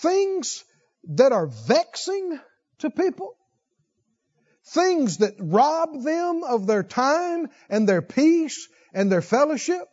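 high, emphatic preacher's appeal; fervent preaching. Acted. Preacher pleading with his congregation, rising and emphatic. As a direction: lean in and press each point.

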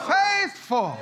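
Faithful cried out high and loud; shouted word. Shown as a demonstration. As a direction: ring out Faithful.

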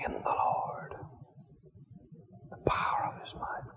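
unvoiced whisper between breaths; breathe, then whisper each phrase; breathless whisper. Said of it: "take a breath or two".

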